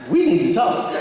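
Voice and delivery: high, startled exclamation; startled reaction. Real, not acted. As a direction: blurt it out, caught off guard. Startling question about aunt and son.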